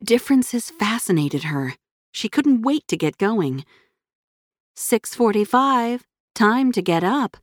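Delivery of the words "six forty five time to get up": slow, even alarm clock voice; robot voice. Acted. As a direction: speak like a machine announcing the time. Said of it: "said the mechanical voice of her alarm clock".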